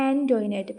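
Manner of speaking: ആൻ്റോയിനറ്റ് said as an-joy-net; ആൻ്റോയിനറ്റ് ending on a plain t, no final vowel; classmates' pronunciation. Shown as a demonstration. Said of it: "എങ്ങനെയാണ് ഉച്ചരിച്ചത്".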